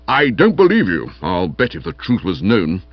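glum, accusing scepticism; morose. Acted. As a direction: refuse his story with heavy disapproval. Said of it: "said Stilton morosely".

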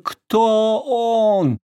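excited demand. A narrator's reading. Margarita urgent question.

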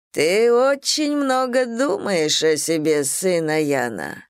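slow, silky and sly; insinuating. Acted. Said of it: "вкрадчиво произнёс он".

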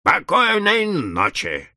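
slow, drawn-out disappointed goodnight; mock disappointed telephone membrane. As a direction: let it sag, slowly, let down. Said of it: "разочарованно чавкнула мембрана".

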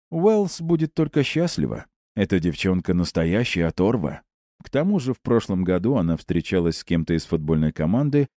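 smug teammate, brash and sly; lightly voiced cocky jock.

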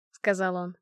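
plain reading voice

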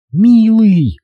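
high, loud cry of darling; bold shout. A narrator's reading. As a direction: call it out boldly and loud. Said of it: "храбро гаркнула девица".

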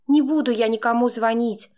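usual speaking voice

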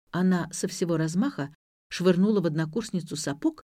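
ordinary delivery, nothing marked

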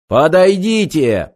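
slow booming machine voice; vast deep cosmic voice. Acted. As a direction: thunder it down from above. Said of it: "прервал речь снайпера громовой голос".

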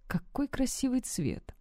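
soft, slow, hushed admiration; admiring. A narrator's reading. Руслан любуется волосами Лоры, тихо и восхищённо. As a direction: breathe it out in quiet awe. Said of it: "восхищённо произнёс мужчина".

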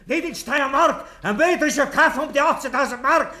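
high, laughing through the words; manic laughter. Acted. Killer laughing madly at the accusation. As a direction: cackle it out, unhinged.

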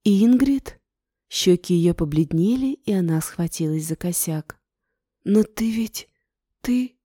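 shocked. Acted. Aunt shocked to see her.

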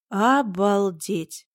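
slow, drawn-out amazement; a slow, astonished exclamation; stunned. Acted. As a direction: let the word stretch in disbelief. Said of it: "потрясённо заявила".

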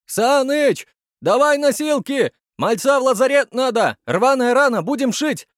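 loud, high shout across the room. A narrator's reading. Medic shouts to Sanych for a stretcher, loud and high. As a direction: call out for the stretcher. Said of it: "обернулся и крикнул".

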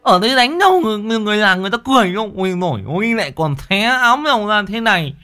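very high, loud, pleading lisp; tongue-tied lad frantically pleading; lisping young man. A narrator's reading. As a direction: beg the two women to stop. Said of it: "Thằng Lực Ngọng".

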